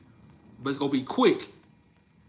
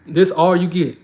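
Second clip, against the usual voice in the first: flirt demo; 10 dB louder than usual. Shown as a demonstration. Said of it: "Let me show you again".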